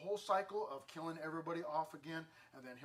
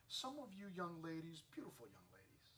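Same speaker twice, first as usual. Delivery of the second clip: soft aside; 7 dB quieter than usual. Real, not acted. Preacher softly teasing the young ladies in the pews. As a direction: lean in and say it gently.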